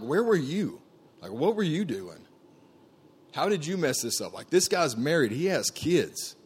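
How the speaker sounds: retold outburst, anguished and accusing; angry at God. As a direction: demand answers from God, voice climbing. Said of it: "I'm getting more and more angry".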